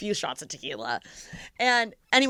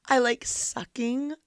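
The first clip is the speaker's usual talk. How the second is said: slow creepy voice; 5 dB quieter, much slower than usual. Retold or imitated. Retold creepy answer.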